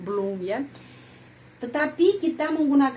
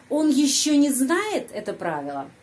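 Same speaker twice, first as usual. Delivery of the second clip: "не знает" lifted, then falling away; question intonation; 3 semitones higher than usual. Shown as a demonstration. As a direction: ask it by stressing "не знает". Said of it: "kalimat tanya". (nada bertanya, tekanan pada "не знает")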